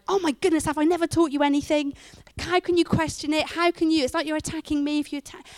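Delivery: hammed-up hurt outrage at the question; mock exasperated parent. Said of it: "my instinct sometimes is to go".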